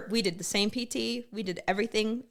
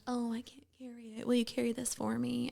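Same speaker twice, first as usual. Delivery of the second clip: higher whiny mock plea, soft start; mocking weak women; 4 semitones higher, 5 dB quieter than usual. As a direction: mimic a helpless girl begging for help. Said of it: "all these little weak little women are, are like".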